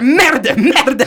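high, frantic French cursing; imitated stressed stammering. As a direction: sputter it like a harried tow driver. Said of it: "hij, hij stammelt zo".

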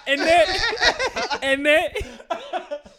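mock British accent, laughing. Teasing his friend, mock British accent while laughing. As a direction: parrot a British catchphrase through laughter. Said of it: "mimicking British accent".

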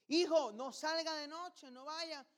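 high, slow pleading parent voice; mock worried parent. Parent begging son not to go out, high and slow. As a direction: warn your son off the night like a fretting parent.

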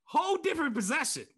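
high-pitched, laughing through the words; real giggling disbelief; cracking up. Real, not acted. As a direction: barely get it out for laughing. Cracking up over lingering dunk reaction.

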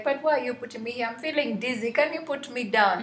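mock whine, pleading to be let off; complaining. Dizzy clay protesting to the potter, mildly complaining. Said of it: "is just complaining and crying".

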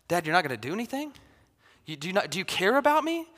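fast, pleading little boy, lightly voiced; hurt kid. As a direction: rush out a wounded complaint to Dad. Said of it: "He'll be like".

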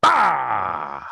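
loud sudden boo; startling boo. Pretend. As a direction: jump out and shout to scare. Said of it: "Did I scare you?".

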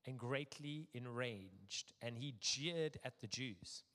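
measured, deliberate public Bible reading; scripture reading. A narrator's reading. Preacher reading Nehemiah aloud to a congregation, measured and deliberate. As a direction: read it out formally, phrase by phrase.

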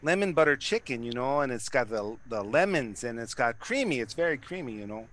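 lightly put-on Fargo accent. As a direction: do a playful Fargo voice. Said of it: "Do it in the Fargo voice".

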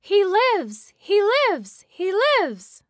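high, loud, gleeful chant; rapturous. Acted. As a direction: repeat it in ecstasy, over and over. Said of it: "she repeated, rapturously".

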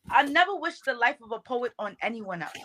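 spoken-word poetry delivery; measured poetic declaration; poem recitation. Shown as a demonstration. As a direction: open the poem as a performer would. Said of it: "that poem that you're referencing".

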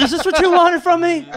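high, loud, hammed-up shout; frenzied yell. Janitor yells after beating coyote, frenzied. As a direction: yell it out like you've snapped.

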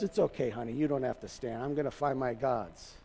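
imitating a dad, low and soft; reassuring father. Father reassures daughter in story.

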